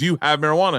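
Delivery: mock pushy, forceful, aggressive demanding tone. Retelling repeatedly asking him what he had, mock-aggressive. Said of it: "And I'm being really aggressive".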